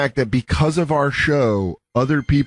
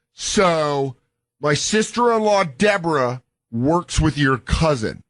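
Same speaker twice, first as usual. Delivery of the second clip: higher-pitched mock fan, drawing out the last words; imitated awkward fan; 3 semitones higher, slower than usual. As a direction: imitate someone haltingly claiming a connection. Imitating a fan approaching a celebrity.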